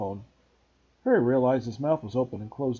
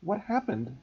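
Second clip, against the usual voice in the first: urgent; 5 semitones higher, 3 dB quieter, slower than usual. Acted. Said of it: "Harry asked urgently".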